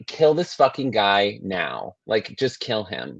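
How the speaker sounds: slow, drawn-out exasperated plea; fed-up verdict. Retold or imitated. Podcaster recalls being sick of the character, slow exasperation. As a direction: drag the words out, utterly done with him.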